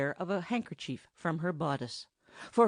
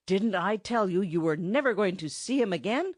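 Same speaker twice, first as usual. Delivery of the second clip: disgusted; 3 semitones higher, 3 dB louder than usual. Acted. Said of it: "said the enchanter in disgust".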